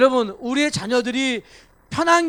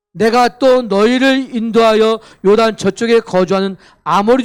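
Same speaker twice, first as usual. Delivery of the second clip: solemn scripture reading; 5 dB louder than usual. Acted.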